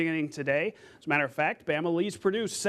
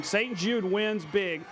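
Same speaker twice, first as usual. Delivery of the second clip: excited call. Real, not acted. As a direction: sell the blowout win like a play-by-play call. Anchor calling a big win.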